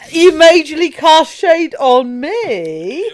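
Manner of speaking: loud, laughing mock protest; laughing complaint. Real, not acted. Co-host protests the teasing while laughing.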